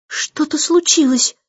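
put-on a girl crying out that something's wrong; alarmed exclaim. A narrator's reading. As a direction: gasp it out as the kite changes. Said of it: "воскликнула она".

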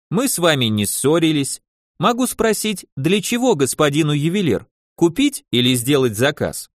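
wheedling tailor with a Yiddish lilt; yiddish accent russian. Acted. Tailor asks. (лёгкий идишский акцент портного)

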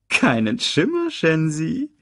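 high-pitched hyena voice; hyena sidekick. A narrator's reading. Banzai answers hyena leader Shensi, high hyena voice. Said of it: "Banzai kicherte".

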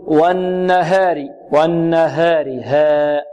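slow والنهار with the long a after h tilted toward e; wrong taqlil. Shown as a demonstration. Teacher imitating some reciters' mistake, reduced vowel. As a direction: chant والنهار with ها thinned to hey. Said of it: "هذا تقليل".

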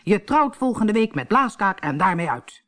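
mild angry outburst; furious father. Acted. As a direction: lay down the law to his daughter. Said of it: "riep woedend".

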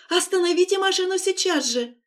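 high, loud, commanding cry; demanding shout. A narrator's reading. Lera pounding on the partition, demanding loudly. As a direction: order the driver to stop, hard. Trapped in car, demands driver stop.

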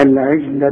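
العجل with j as in jam, not Egyptian hard g; soft jeem. Shown as a demonstration. Teacher showing the jeem rule, soft j in العجل. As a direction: soften the ج of العجل to j. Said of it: "كل جيم في القرآن تعطش".

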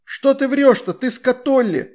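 high, loud yelling; yelled accusation. A narrator's reading. Astrid yelling at Perila for lying, high and loud. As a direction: holler that she's lying. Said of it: "завопила Астрид".

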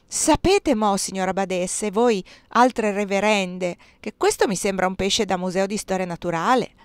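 mock-aghast, slowing down; a touch of alarm; dismayed. Bursar tells the abbess the fish is a museum piece, dismayed. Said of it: "disse atterrito".

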